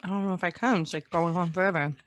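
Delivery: chewing while talking; mouth full. Real, not acted. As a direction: talk through a mouthful of candy. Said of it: "shouldn't put all four in my mouth".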